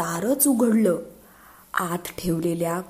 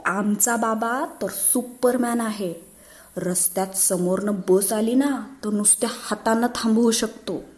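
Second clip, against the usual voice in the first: put-on lightly raised child voice, bragging; boastful child; 4 semitones higher than usual. Schoolboy boasting to friends, lightly higher bragging voice. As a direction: brag like a schoolboy about his dad.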